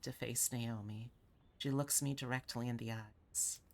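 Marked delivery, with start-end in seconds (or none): none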